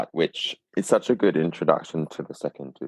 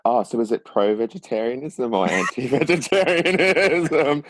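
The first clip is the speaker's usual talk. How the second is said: puzzled question; 6 semitones higher than usual. Retold or imitated. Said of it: "they're like".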